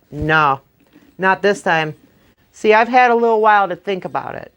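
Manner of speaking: lightly voiced Jack dictating his terms; scheming Jack. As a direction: lay out the terms with sly confidence.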